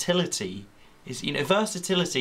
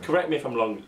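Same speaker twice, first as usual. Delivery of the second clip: mock ruler voice; 2 semitones higher, 3 dB louder, faster than usual. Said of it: "said the ruler to the piece of string".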